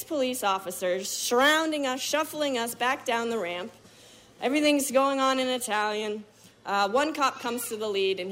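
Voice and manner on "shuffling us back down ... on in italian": usual speaking voice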